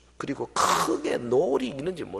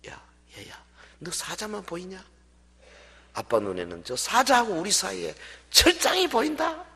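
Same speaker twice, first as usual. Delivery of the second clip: calm father; 5 semitones higher than usual. Retold or imitated. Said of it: "그때 아빠가 그러더랍니다". (아들을 달래는 아빠의 차분한 목소리)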